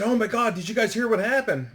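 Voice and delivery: acted-out urgent question; urgent alarm. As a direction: imitate a teammate rushing up with news. Teammate runs up with shocking news.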